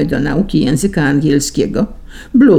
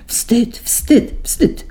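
indignant; 7 semitones higher, much slower than usual. A narrator's reading. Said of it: "migotały z oburzeniem".

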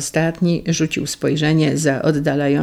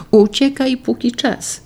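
higher-pitched, urgent warning to run; urgent plea; 8 semitones higher than usual. A narrator's reading. Klementyna warns her hunted lover to flee, urgent plea. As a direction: read it as an anxious urging to flee.

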